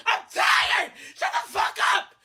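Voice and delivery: tearful shout; angry crying. Real, not acted. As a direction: spit it out, worn out. Crying rant against critics.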